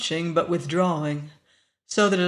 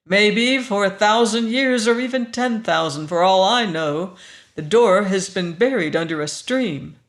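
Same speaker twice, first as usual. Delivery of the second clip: grim; 2 semitones higher, 6 dB louder than usual. Acted. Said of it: "Danton told her grimly".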